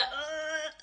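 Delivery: high, quiet strained wheeze; imitated burst of laughter. Teller hearing the Olympics lie, mock stifled laughing. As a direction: squeeze out a high, held-in laugh. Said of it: "I burst out laughing".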